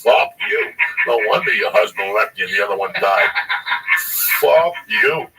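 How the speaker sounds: loud mock yelling at mom, cursing her out; retold furious yelling. Teen yelling back at his mother after a slap, loud angry shout. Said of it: "I was pissed".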